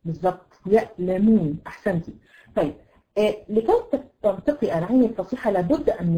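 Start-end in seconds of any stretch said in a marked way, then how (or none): 0.7-1.6 "يألمون" with a glottal stop after ya; hamza for ayn. Shown as a demonstration. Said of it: "بدل العين هتحطي همزة".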